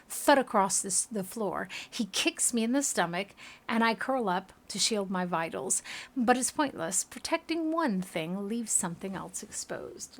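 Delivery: dramatic reading with weighted phrases; story narration. Acted. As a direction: tell the grim memory like a storyteller. Reads game story aloud.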